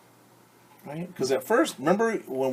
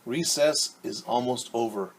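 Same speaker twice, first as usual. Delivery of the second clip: teacher calling out; 3 semitones higher, 5 dB louder than usual. Acted. A teacher calls the children in from recess, raised voice. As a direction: announce it like a teacher ending recess.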